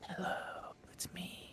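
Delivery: soft ASMR whisper, very close to the mic. Trying out ASMR for the first time, give an ASMR whisper into the mic. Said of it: "I have to like whisper in the mic".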